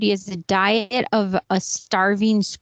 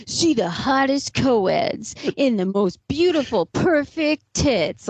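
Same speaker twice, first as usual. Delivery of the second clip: infomercial voice. Retold or imitated. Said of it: "Joe Francis Girls Gone Wild infomercial".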